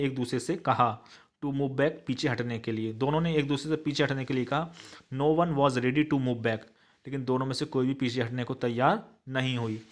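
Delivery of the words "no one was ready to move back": slow dictation. Shown as a demonstration. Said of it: "teacher dictates English answer".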